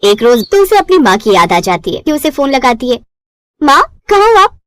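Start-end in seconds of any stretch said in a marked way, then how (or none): 3.6-4.6 high, excited call to mother; eager daughter. Acted.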